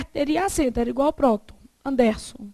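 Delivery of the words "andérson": Anderson stressed as an-DER-son. Shown as a demonstration. Teacher tests a wrong stress for the class, Anderson with stress on DER. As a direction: put the weight on the middle DER of Anderson. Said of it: "se a sílaba tônica fosse o der".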